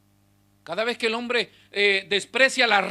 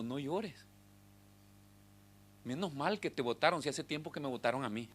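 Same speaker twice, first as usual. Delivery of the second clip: soft and tender, much quieter, almost hushed; gentle comforting voice; 5 semitones lower, 10 dB quieter than usual. Acted. Jesus softly consoles the brother thrown out of church, tender and hushed. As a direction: murmur it like a friend wiping away tears.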